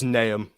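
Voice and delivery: "Nahum" as NAY-um; correct name pronunciation. Shown as a demonstration. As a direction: say "Nahum" to rhyme with Graham, no h. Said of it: "Basically just Graham with an N".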